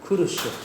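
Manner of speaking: Kuru sho with the de dropped, clipped; casual shortened. Shown as a demonstration. Teacher showing how Japanese people clip desho. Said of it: "They don't even have the de".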